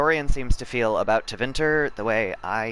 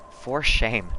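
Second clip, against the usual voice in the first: mock shame; 2 semitones higher than usual. Real, not acted. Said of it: "I promise I'm joking".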